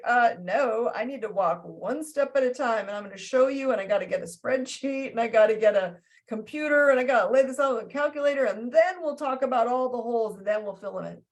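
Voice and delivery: a lightly voiced methodical planner; plodding earth sign. Teacher mocking a methodical earth sign, lightly voiced. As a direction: list it off like a stubborn bookkeeper. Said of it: "the earth signs are like".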